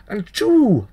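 high, whooping exclamation; excited cry. A narrator's reading. Narrator whoops each leap of the dancing child, high. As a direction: fling it out with the leap.

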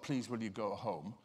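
a weak polite request to the demon; timid request. Shown as a demonstration. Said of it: "It's not a little sort of".

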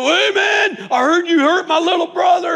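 high, loud tough-guy yell; shouting down a schoolyard bully; retold shout. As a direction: bark it at the bully like a big brother. Confronting the bully in story.

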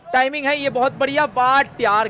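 loud, high start that settles; live play-by-play. Acted. Streamer calls a well-timed shot to viewers, commentary voice. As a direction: praise the shot strongly, then ease off.

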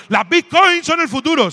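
high, slow, loud guru pitch; hammed-up keynote voice; mock conference speaker. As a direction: sell it like a hyped speaker. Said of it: "dando una conferencia muy fuerte".

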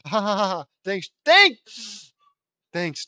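loud, high evil cackle; evil laugh. Acted. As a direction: cackle like a mad scientist. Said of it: "Luann laughs evilly".

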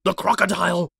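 loud, high gasp of dread; terrified gasp. A narrator's reading. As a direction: gasp it out in horror. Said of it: "he gasped".

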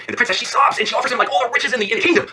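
high, urgent storytelling; pleading narration. A narrator's reading. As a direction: narrate her desperate offer, pitched high. Princess sobs and pleads in story.

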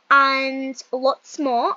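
slow, drawn-out British accent. Shown as a demonstration. Youtuber showing accents to viewers, British accent.

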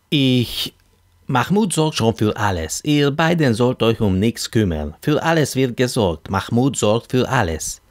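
chatty self-introduction, lightly acted; talkative Arab matchmaker. Hassan introduces himself to two women, eager chatter. Voices Petrus reassuring the women.

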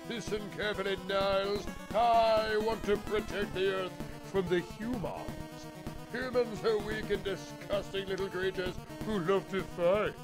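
lightly voiced theatrical villain; a hint of grand menace; slow theatrical villain menace. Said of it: "every villain voiced as Fraser".

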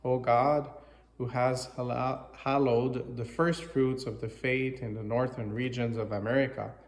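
measured, slightly projected liturgical reading; formal prayer reading. Real, not acted. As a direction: read it out as a collect addressed to God. Reads the English prayer aloud.

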